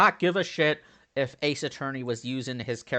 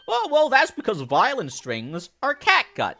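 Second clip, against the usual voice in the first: high, loud theatrical explanation; eccentric detective, delighted; 11 semitones higher, 6 dB louder than usual. Acted. Detective explaining catgut violin strings to Iris, excitable. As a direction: exclaim it with showy, high-pitched eagerness.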